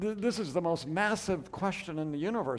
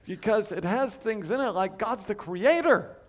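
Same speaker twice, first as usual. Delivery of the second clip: mock agreement; 5 semitones higher, slower than usual. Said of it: "And I say".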